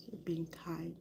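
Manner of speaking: soft breathy repeat of you're being kind; whispered. Real, not acted. Repeats phrase, second one whispered.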